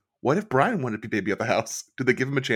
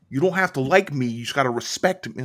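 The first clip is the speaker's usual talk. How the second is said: imitating Howie; 2 semitones higher than usual. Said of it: "Brian, you do the voice better".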